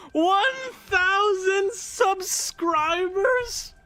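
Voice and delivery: real overjoyed disbelief; stunned disbelief. Real, not acted. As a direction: say it like you can't believe it. Disbelief at milestone.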